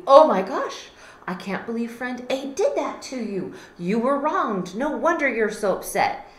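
loud mock outrage on their behalf; outraged sympathy. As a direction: take friend B's side with heat. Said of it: "you're thinking to friend B".

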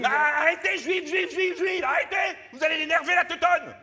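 loud, mocking repeated juive; taunting shout. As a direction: jeer juive at her. Host taunting the guest, shouting.

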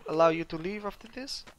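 put-on Russian accent. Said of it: "Sometimes I forget to speak with the accent".

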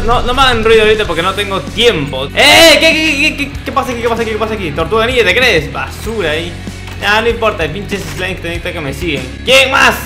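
ordinary delivery

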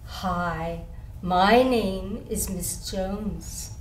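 a touch of the polite new teacher, slow and low. Retold or imitated. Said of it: "she come up to me and she say".

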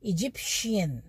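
इजिप्शियन said slowly with a clear shi sound; careful model word. Shown as a demonstration. Teacher showing how to say the word, slow and clear. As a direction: draw out इजिप्शियन for students. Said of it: "इसको कैसे बोलेंगे".

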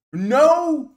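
sudden loud shout on one word; real angry outburst. Real, not acted. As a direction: bark out the no in anger. Angry rant at rival.

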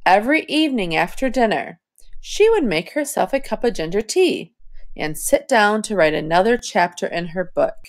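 phrased reading with a breath after tea; smooth phrasing. Shown as a demonstration. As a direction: scoop the words, pause at and. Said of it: "scoop up the rest of the sentence".

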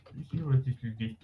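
mocking imitation of a friend's Australian accent. Friend teasingly mimics his Australian accent. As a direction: parrot him in a put-on Australian accent. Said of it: "Don't fucking mock me because of my accent".

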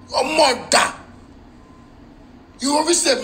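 sudden high-pitched jab; your mother, squeaked high; insult outburst. Real, not acted.

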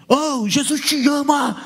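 loud, slow call of Jesus te ama; loud drawn-out announcement; mock intercom shout. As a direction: drag it out and shout over the speaker. Preaching over emergency intercom.

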